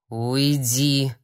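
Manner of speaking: low, choked rasp of a word; hoarse rasp. A narrator's reading. Sorcerer chokes out to the holy fool, rasping. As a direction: force it out as if choking. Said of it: "прохрипел колдун".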